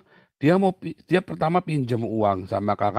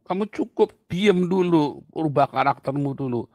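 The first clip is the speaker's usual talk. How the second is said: high, loud firm command from God; a stern God, voiced high and loud; God speaking firmly; 4 semitones higher, 4 dB louder than usual. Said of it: "Tuhan bilang".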